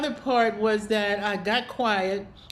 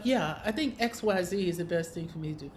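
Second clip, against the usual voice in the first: quiet self-talk; 3 semitones lower, 5 dB quieter, faster than usual. Shown as a demonstration. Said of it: "And so you say to yourself".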